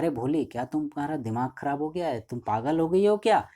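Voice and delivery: mock angry father yelling; father rising to a shout. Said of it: "Ramlal भी चिल्लाता है".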